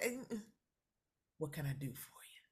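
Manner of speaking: whispered, as if to the customer; whispering the retort; hushed aside. Retold or imitated. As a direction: drop to a whisper. Retold customer exchange, whisper.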